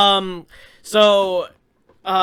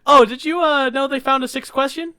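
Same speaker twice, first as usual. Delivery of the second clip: higher and louder bait question; louder teasing setup; 6 semitones higher, 5 dB louder than usual. Retold or imitated. Retelling the joke setup to Jordan, louder and teasing. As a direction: sell the setup with a grin. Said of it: "I'm like".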